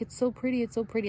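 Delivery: wide-eyed retold amazement; retold awe. Retells neighbor's blissful awe.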